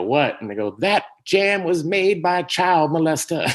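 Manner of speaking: mock-horrified announcement; shocked crowd.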